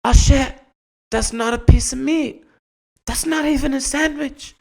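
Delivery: high, startled dog voice; hammed-up high surprised dog; dog snapping to its senses. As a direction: realize in a shock what you're biting. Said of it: "they snap into focus and they go".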